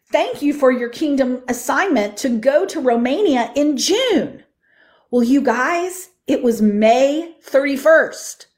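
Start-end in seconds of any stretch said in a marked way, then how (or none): 0.1-4.4 put-on child reciting the declaration. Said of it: "Here's the way he said it".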